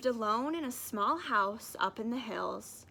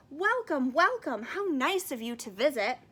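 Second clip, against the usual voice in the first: warm welcome; 3 semitones higher, 5 dB louder than usual. Acted. Uncle welcomes robber kindly.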